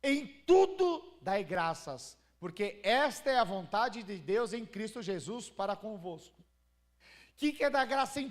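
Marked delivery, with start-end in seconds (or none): 0.0-6.4 loud, slow, solemn Bible reading; ringing pulpit declaration, drawn out; scripture proclamation. Acted. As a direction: proclaim the verse slowly and forcefully. Reads the Bible verse aloud.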